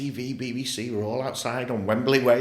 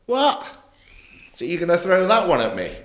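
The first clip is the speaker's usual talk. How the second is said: shocked outrage; 8 semitones higher, 9 dB louder than usual. Real, not acted. Shock at the live TV question.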